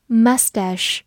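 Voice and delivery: "Mustache" with stress on the first syllable, MUS-tash; first pronunciation variant. Shown as a demonstration. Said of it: "它有三种发音都是对的".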